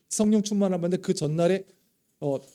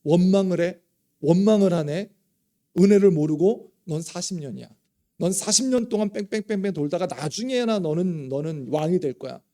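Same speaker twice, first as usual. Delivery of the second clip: louder, indignant scolding voice; mock scolding God; 4 dB louder than usual. Pastor imagines God scolding David for complaining. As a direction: scold like an offended master. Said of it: "하나님께서 다윗이 이렇게 원망할 때".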